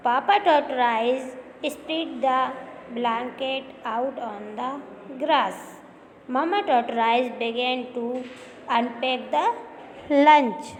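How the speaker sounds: slow, careful story reading for students. Acted. Teacher reading the English chapter aloud to students, slow and clear. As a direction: read the sentence out slowly so the class can follow.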